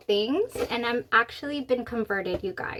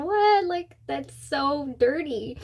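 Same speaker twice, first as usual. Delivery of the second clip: surprised; 4 semitones higher, slower than usual. Retold or imitated. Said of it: "And I said".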